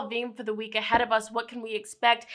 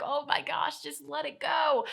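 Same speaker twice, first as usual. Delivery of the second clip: a touch of exasperation, pitched up; mildly annoyed; 4 semitones higher, 4 dB quieter than usual. Acted. You, fed up with the past resurfacing, mildly annoyed. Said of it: "be really frustrated and annoyed".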